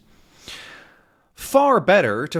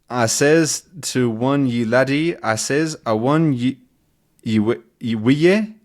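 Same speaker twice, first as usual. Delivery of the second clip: put-on Scottish accent. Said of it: "this guy's dialect and accent".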